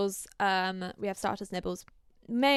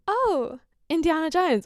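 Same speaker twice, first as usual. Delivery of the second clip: imitating the ex-wife, higher and louder; mock sultry greeting; 8 semitones higher, 7 dB louder than usual. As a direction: purr his nickname like an old flame. Older woman greets him.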